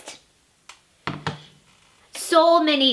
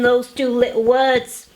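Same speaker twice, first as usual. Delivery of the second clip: whisper. Acted. Whispering the two little words.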